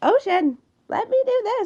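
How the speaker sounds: goofy, high, slow silly dog voice. Voicing their dogs trying to get their attention: dog voice for getting attention. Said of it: "that's the voice for like when they're trying to get my attention".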